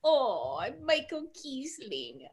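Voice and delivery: slow, drawn-out put-on voice; soft, stretched-out imitation swinging in pitch; Michael Kiesling. Player imagining how the designer talks, mock impression. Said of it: "he would sound like that".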